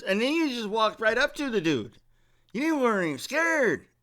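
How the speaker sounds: high-pitched, loud, amazed bystander voice; excited bystander. Retold or imitated. Hispanic customer gushing to the narrator, loud high amazement. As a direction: play the wide-eyed guy who saw it all. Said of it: "and he goes".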